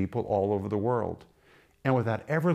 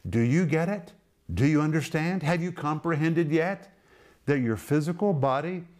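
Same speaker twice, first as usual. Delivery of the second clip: higher, urgent do you get it; incredulous questioning; 4 semitones higher than usual. Retold or imitated. Paul pressing the Corinthians, incredulous questioning. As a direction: push the question at the listener. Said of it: "he says to me and to you".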